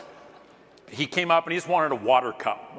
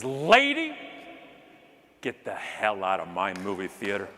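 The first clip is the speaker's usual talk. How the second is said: retold stern order; 5 semitones lower, slower than usual. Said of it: "looks at the woman and says".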